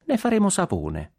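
honeyed and high, a sugary threat; sweet voice. Acted. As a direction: say it sweetly, all innocence. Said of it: "con voce dolce".

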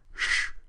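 sudden breathy hush; urgent shush. A narrator's reading. Huck interrupts Tom's prayer, urgent shush. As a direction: cut in with a shush.

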